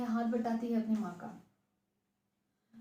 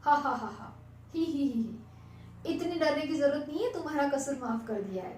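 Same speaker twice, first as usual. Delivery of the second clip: teasing; 2 semitones higher than usual. Acted. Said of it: "भैया उसका मजाक उड़ा रहे थे".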